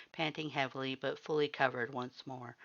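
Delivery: usual speaking voice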